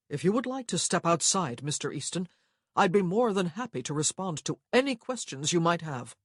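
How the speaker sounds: a touch of a formal gentleman's challenge; Rowan, challenging. Acted. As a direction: offer a fight with strained politeness.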